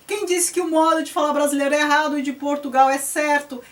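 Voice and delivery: heated shout defending Brazilian Portuguese; indignant outburst. Retold or imitated. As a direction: push back hard, half shouting the question. Indignant rebuttal to purist student.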